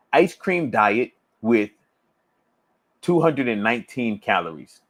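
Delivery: slow, word-by-word read of the comment. Real, not acted. Coach slowly deciphering a viewer's comment, word by word. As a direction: sound it out carefully, puzzling over it.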